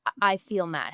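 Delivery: put-on calm, restrained child's statement; kind tone. Shown as a demonstration. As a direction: state the feeling kindly and evenly. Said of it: "in a kind tone".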